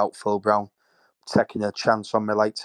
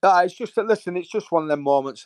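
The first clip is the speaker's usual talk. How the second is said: still emotional; 8 semitones higher than usual. Real, not acted. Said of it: "I'm getting emotional".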